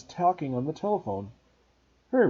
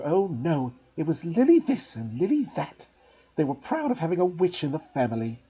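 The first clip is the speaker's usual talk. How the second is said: higher, resentful rant; bitter aunt ranting; 3 semitones higher than usual. Acted. Aunt ranting at Harry about her sister, bitter. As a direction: spit out years of jealousy.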